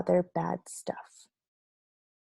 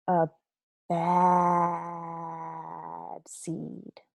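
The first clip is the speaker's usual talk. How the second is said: sad; much slower than usual. Acted. Sorrowful self-label.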